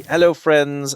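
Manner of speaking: cute anime streamer. Acted. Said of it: she introduces herself by name.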